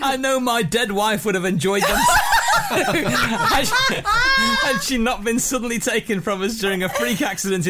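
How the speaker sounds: high-pitched, corpsing read; laughing while reading. Real, not acted. Host reading a listener's email, corpsing with laughter. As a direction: fight giggles to get the sentence out.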